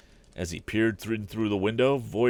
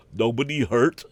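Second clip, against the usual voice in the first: put-on louder, disappointed boy; chagrined boy; 5 semitones higher, 6 dB louder than usual. A narrator's reading. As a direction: let down and sulky. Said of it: "he too showed his chagrin".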